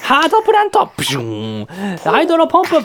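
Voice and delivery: attack call. Pretend. Shouting Pokémon attack names.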